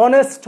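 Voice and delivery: অনেস্ট beginning with an O vowel; "honest" as অনেস্ট, opening on O; silent-H pronunciation. Shown as a demonstration. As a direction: say অনেস্ট with no H at the front. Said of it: "তাহলে ও উচ্চারণ আসে".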